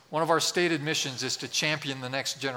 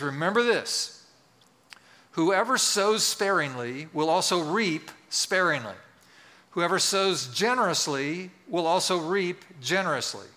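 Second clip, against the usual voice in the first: deliberate, emphatic public Bible reading; scripture reading. Acted. Pastor reads Paul's letter to the congregation, emphatic scripture reading. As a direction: read the verse out with weighted key words.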